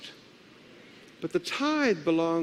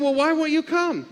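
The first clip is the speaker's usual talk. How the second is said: retold protest; 8 semitones higher, 3 dB louder than usual. Sick lady protests to pastor.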